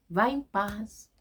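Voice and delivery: slow, tender blessing; gently. Shown as a demonstration. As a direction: send her off in peace, slowly. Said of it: "com carinho".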